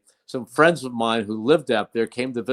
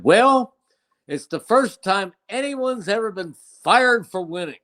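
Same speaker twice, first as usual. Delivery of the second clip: mock proclamation in a raised pitch; retold wry announcement; 7 semitones higher than usual. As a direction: imitate a coach making a grand pronouncement. Coach's defiant press conference quip, retold.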